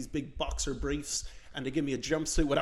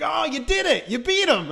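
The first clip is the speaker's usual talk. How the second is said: high, loud mock cheer; hammed-up excitement, pitched well up; retold mock congratulation; 12 semitones higher, 5 dB louder than usual. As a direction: cheer like a gleeful imitated cop. Cops mock-congratulate him.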